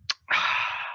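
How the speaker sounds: long, quiet exhale; weary sigh. Acted. Teller acts a reluctant agent's reply, weary sigh. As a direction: sigh it out softly.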